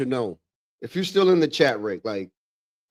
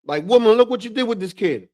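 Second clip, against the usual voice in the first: higher mock-outraged father; exasperated dad; 8 semitones higher than usual. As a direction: play the dad blaming the mother. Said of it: "My dad would be like".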